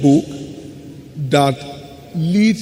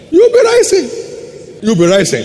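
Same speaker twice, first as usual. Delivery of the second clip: loud, raised-pitch proclamation; rousing declaration; 9 semitones higher, 5 dB louder than usual. Real, not acted. Preacher promising congregation they will rise, loud rousing call. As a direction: cry it out to lift the crowd.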